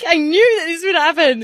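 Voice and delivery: tearful, voice wobbling with real tears; fighting back real tears as she speaks; crying while laughing it off. Real, not acted. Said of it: "I told myself I wasn't gonna cry".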